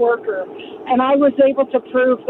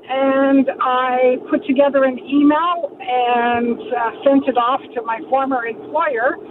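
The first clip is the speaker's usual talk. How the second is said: car speakerphone. Real, not acted. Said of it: "I'm driving hands-free".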